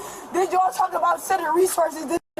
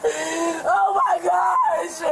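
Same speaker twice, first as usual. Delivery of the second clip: sobbing; much slower than usual. Real, not acted. Man sobbing as police hold him.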